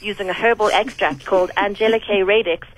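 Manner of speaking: upbeat radio ad read; chipper 1950s ad. Acted. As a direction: read it like a cheery ad. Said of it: "such a professional".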